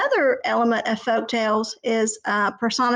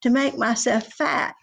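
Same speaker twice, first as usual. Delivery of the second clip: squeaky brother goat, less tiny; middle goat; 3 semitones higher than usual. Acted. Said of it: "second billy goat Gruff said".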